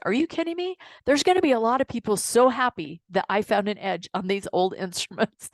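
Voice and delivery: a little snarky, with a laugh at the end; snarky comeback. Retold or imitated. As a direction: toss back a cheeky retort. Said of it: "that was maybe a little bit snarky".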